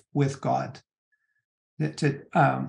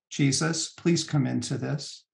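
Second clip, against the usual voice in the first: a softer, gentle plea to Jesus; soft prayer; 2 semitones lower, 6 dB quieter than usual. Shown as a demonstration. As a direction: pray it quietly, as if alone with God. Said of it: "the prayer that goes like this".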